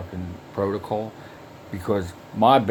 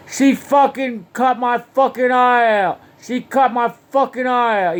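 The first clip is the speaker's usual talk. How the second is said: imitating a high, loud agonized yell; retold yell; 12 semitones higher, 5 dB louder than usual. Injured man yelling about his cut eye, high retold yell. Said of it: "And he yelled, he goes".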